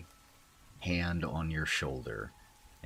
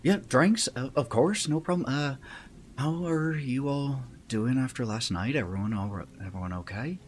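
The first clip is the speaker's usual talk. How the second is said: higher-pitched, louder character voice; manly female voice; 9 semitones higher, 6 dB louder, faster than usual. Acted. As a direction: pitch it up as Danny, checking on everyone. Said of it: "very manly female voice".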